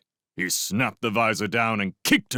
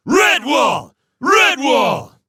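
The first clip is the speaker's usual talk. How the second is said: far higher, very loud chanted reply; frenzied roar; 11 dB louder, much slower than usual. Acted. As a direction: roar back like a mob. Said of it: "they roared back their frenzied replies".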